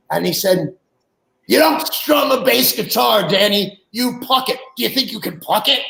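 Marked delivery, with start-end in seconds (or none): 1.5-5.8 mild mock anger, raised higher and slowed; imitating a fuming older bandmate scolding; retold irritated correction, pitched up; fuming lecture. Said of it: "I mean, really fuming".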